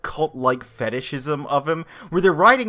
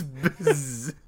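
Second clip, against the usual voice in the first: buzzed mock whisper; 6 dB quieter than usual. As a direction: buzz in place of whispering. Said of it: "Astros whisper".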